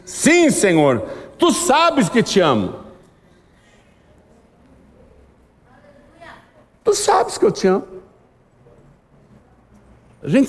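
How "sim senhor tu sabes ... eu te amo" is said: slow, higher earnest reply; voicing Peter. Preacher voicing Peter's answer to Jesus, higher and earnest.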